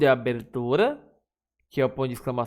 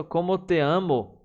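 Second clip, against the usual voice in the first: loving exclamation; 4 semitones higher than usual. Shown as a demonstration.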